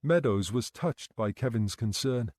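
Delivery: ordinary delivery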